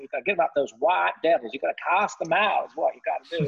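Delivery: imitating an American southern accent, a bit emphatic. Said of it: "in this southern accent".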